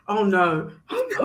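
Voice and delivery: very high; mock shock. Real, not acted. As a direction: squeal it in shock. Reacting with laugh.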